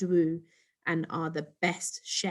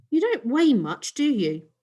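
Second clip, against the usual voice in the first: put-on higher, louder puzzled boy; surprised boy; 6 semitones higher, 5 dB louder than usual. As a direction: sound surprised the alien is so light. Ricky surprised by Tweetle.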